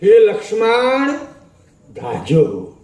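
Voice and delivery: a slow, stretched call to Lakshman; calling for help. Retold or imitated. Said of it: "અને બૂમ પાડી". (ધીમી, લાંબી બૂમ)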